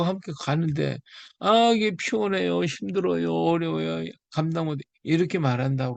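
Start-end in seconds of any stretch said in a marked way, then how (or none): 1.4-4.8 high, whiny grumble of a tired believer; mock whining complainer. Preacher mocking a believer whining to God, high and whiny. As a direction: whine like someone making excuses.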